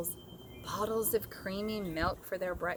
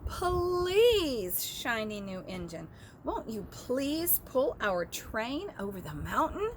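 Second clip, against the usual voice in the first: pleading toys; 3 semitones higher than usual. Acted. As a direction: beg the engine desperately, voices up high. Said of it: "cried out together".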